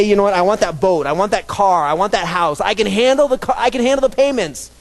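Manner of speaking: imitating a buyer's bravado; mock greedy boast. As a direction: play the man who wants it all.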